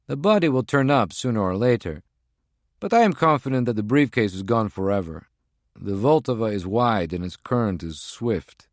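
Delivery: a tense field agent reporting in; agent's voice. Acted. Voices Prague One on phone.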